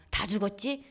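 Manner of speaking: mild soothing plea. Retold or imitated. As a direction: plead gently, as if calming someone down. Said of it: "그래서 제가 달랩니다".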